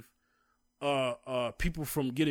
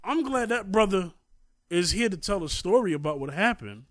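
raised, high emphatic voice; impassioned protest; 8 semitones higher, 5 dB louder than usual. Real, not acted. Man decrying no justice for shot caregiver, impassioned. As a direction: push each phrase out high and loud in protest.

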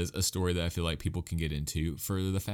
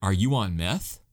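lightly raised yell, pitched up at first; mock yelling; 4 dB louder than usual. Imagined purists yelling at the host about his pick, mock yelling. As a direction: imitate an outraged listener yelling. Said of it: "are probably yelling, saying".

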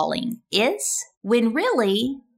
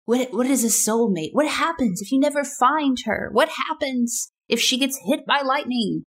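put-on higher, fretting young prince in a panic; agonized young prince; 6 semitones higher than usual. To the older man, a lightly voiced anxious prince. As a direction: fret over soulmates like a lovesick young prince. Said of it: "he's saying to this older man".

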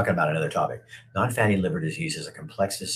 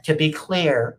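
higher, louder sing-song mock of a stock phrase; mocking the governor; 9 semitones higher, 5 dB louder, slower than usual. Streamer mocks the governor's catchphrase, higher and louder. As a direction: parody her pet phrase. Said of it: "if I hear her say".

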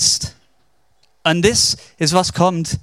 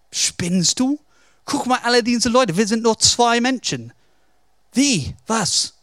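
higher-pitched, baffled objection; incredulous protest; 4 semitones higher than usual. Retold or imitated. Servant to Elias about being outnumbered, acted incredulity. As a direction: protest as if he has lost his mind. Servant disbelieves the calm prophet.

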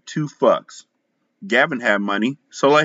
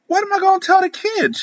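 tearful. A narrator's reading. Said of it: "with tears in her eyes".

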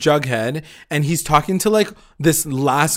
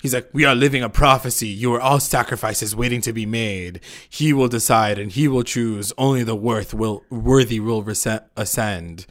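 lightly voiced crazy cult leader; 2 semitones lower than usual. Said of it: "goes crazy".

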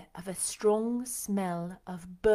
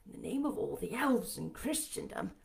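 demanding; 3 semitones higher, 4 dB louder than usual. A narrator's reading. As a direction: build to a startled shout on the name. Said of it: "he demanded".

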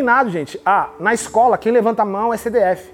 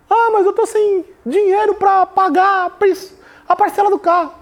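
whining complaint; 6 semitones higher than usual. Retold or imitated. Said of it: "vai chorar suas lamúrias".

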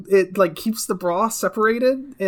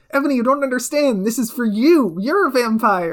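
higher, quick mock-sincere pleading; imagined earnest plea; 5 semitones higher than usual. Boyfriend explaining his tattoo to Ebony, mock-earnest plea. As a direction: plead it as an overdone confession.

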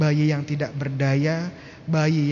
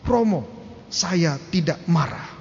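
retold raised-voice protest. Upset mother protesting to her priest, mock raised voice. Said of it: "Dengan nada yang sangat tinggi".

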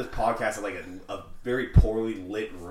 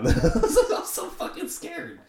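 high, loud laughing confession; slow it down through the laughter; 5 dB louder, slower than usual. Real, not acted. Admitting to friend his jail fright, laughing.

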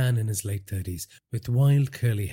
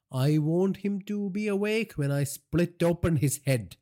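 menacing; 10 semitones higher than usual. A narrator's reading. Boss threatens.

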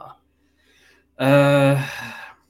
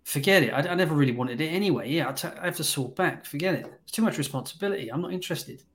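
dismissive; 3 semitones higher than usual. Retold or imitated. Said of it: "I said".

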